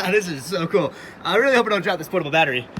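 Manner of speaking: laughing, fast, strained while swimming; swimming while talking. Real, not acted. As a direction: gasp words out mid-swim. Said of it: "literally swimming right now".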